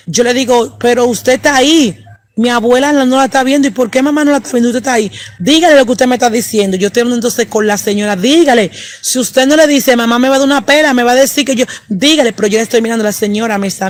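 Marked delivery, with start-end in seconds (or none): 0.8-6.8 put-on higher, pressing child's insistence, speeding up at the end; a little girl begging to be believed, higher; urgent child plea. Child insisting the dead woman's there. 8.2-12.3 higher, louder begging, urgent; a scared girl pleading, afraid of a spanking; desperate child plea. Retold or imitated. Child begging the apparition to speak.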